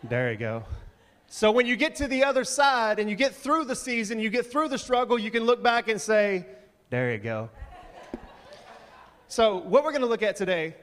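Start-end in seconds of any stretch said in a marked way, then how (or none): 0.0-0.6 low, laid-back and unbothered; chill kid. Retold or imitated. Son's friend pointing out Waldo, low and chill. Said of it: "he's just so chill". 1.3-6.5 higher and louder, building toward the point; preaching build. Acted. Pastor urging the church through hard seasons, building up. 6.9-7.5 low, laid-back and unbothered; chill kid. Retold or imitated. Son's friend pointing out Waldo, low and chill. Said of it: "he's just so chill".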